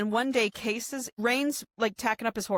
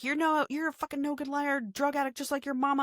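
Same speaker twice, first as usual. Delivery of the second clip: mock abusive dad; 7 semitones higher than usual. Abusive dad insults Case.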